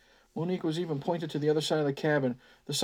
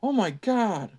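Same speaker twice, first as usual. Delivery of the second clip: whined. Acted. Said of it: "Albert whined".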